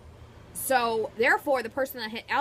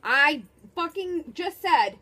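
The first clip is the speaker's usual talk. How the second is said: annoyed; 4 semitones higher, 5 dB louder than usual. Real, not acted. Annoyed at repeated question.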